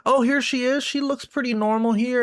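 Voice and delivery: lightly voiced eager kid, pitch rising toward the end; a hint of an innocent kid. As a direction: play a curious kid at the computer, lightly. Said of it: "your kid gets on the computer".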